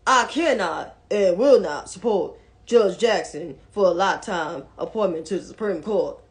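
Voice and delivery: lightly put-on senator's accent; Mitch McConnell. Commentator repeating the senator's refusal, lightly imitated accent. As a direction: do a mild imitation of his drawn vowels. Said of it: "say it again in his accent".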